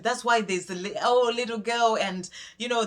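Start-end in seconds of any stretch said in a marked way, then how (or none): 1.0-2.0 lightly excited, higher-pitched quote; a touch of teasing excitement, voice lifted; playful excitement. Retold or imitated. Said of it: "sort of excited".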